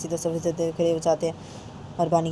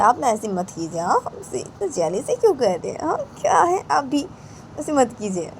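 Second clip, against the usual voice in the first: higher, louder teasing; teasing taunt; 4 semitones higher, 3 dB louder than usual. Acted. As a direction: needle him about jealousy. Uncle mocking brother while laughing.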